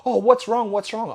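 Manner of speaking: high-pitched mock concern; pestering mate. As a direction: imitate a needling friend, loud at first. Mimicking his pestering mate.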